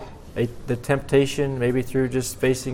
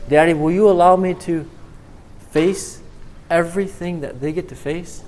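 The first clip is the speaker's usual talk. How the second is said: pleading son; 4 semitones higher than usual. Acted. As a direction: ask your father, lifting the voice in hope. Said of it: "But, but Daddy".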